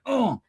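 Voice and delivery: high mock grunt; imitated strained grunt. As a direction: act out a seatbelt catching you. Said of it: "So you'd be like".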